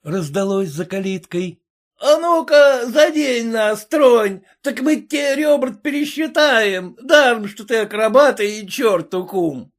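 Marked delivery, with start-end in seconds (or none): 2.0-9.7 угрожающий крик. A narrator's reading. Толпа грозит барину.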